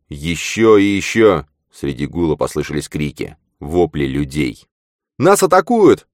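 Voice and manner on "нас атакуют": high, loud cry of alarm; alarmed exclamation. A narrator's reading. Nat cries out to everyone that they're under attack, loud and high. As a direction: shout the warning as the blasts hit. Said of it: "воскликнул Нат".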